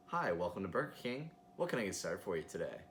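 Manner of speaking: polite, posh speaker greeting; polished drive-thru voice. Retold or imitated. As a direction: sound smooth and professional. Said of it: "Very polite, very posh, very polished".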